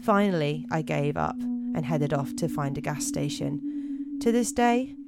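measured spooky-tale narration; deliberate storyteller read; story narration. A narrator's reading. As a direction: read it out like a campfire mystery, pausing between phrases.

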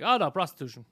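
mock horror through laughter; laughing mock outrage; laughing mock dismay. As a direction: say it laughing at the idea. Mocking friend's reaction.

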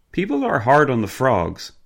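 light Cockney cab driver; cheery Cockney accent, lightly done. A narrator's reading. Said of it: "thick Cockney accent".

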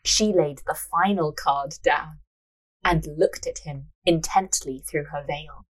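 measured storyteller's reading; story narration. A narrator's reading. Narrator reading a fortune-teller scene, measured narration. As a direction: read the tale aloud, unhurried.

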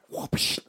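whooshing eighties film slap; imitated slap effect. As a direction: make a cartoonish slap whoosh. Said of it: "slap sound effects from the eighties".

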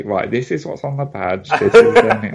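geeky know-it-all voice, rising high; nerdy voice. Pretend. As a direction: play it like an eager nerd. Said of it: "say it in that voice that made it sound like it was, like, a really nerdy thing".

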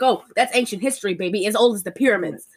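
quick mock Tarantino patter; fast, imitated film-dialogue delivery; snappy movie dialogue. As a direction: rattle it off like snappy banter. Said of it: "snappy Tarantino dialogue".

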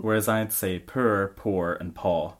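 "purr, poor, and paw" slow, three distinct Scottish vowels; Scottish accent. Shown as a demonstration. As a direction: slowly separate each Scottish vowel. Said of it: "Three different pronunciations of my accent".

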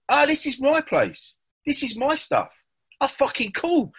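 high, wide-eyed mock wonder; delighted tripping self. Back at his place on acid, amazed by his own room, high and awed. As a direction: squeal up like a kid who's just found his own stuff.

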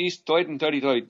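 a light Brooklyn New York accent, lightly put on. Shown as a demonstration. Actor showing the director his New York accent, lightly done. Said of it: "I would do my New York accent".

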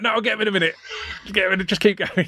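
light high goofy zombie voice; a hint of a proud zombie, keep reaching. Zombie too proud to lower arms.

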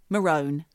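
MAROON said as "ma-rone"; long O in MAROON, rhyming with bone; mispronounced MAROON. Shown as a demonstration. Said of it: "mispronounces something or reads it".

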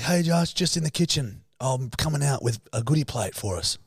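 high, sing-out housemate reply; lightly mocked friendly reply; voicing the housemate. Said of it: "You're like".

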